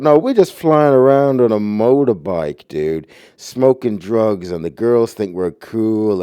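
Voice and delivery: mock the carefree biker dude, mildly hammed; Easy Rider hippie. Mocking Peter Fonda's Easy Rider hippie, lightly voiced. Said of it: "playing this fake persona of like".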